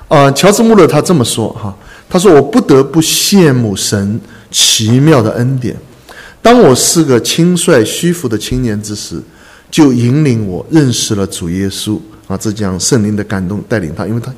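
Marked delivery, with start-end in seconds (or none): 2.3-12.0 deliberate, measured reading of a testimony; unhurried quotation read to listeners; slow read-aloud. Real, not acted. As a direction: read it out slowly, phrase by phrase. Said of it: "我盼望我跟大家慢慢的读".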